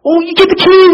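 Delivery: high, loud wonder; amazed. Retold or imitated. Jen marveling to the narrator about the keys, high and loud.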